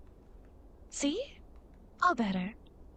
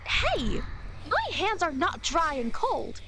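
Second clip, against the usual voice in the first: indignant outburst; 2 semitones higher, slower than usual. Acted. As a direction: snap back, offended. Offended by remark about hands.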